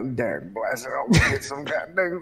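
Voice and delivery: grumpy, quiet under-the-breath mutter. Playing a sleepy character going back inside: muttering grumpily. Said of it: "am muttering to my".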